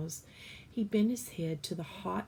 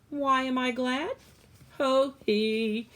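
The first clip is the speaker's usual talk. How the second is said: jolly laugh; 7 semitones higher, 8 dB louder than usual. Acted. Cook laughing.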